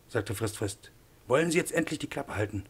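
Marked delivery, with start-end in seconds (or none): 1.3-2.6 higher-pitched, impatient demand; acted, fed-up scolding; exasperated demand. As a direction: tell him off with mild exasperation. Professor silences the arguing assistant.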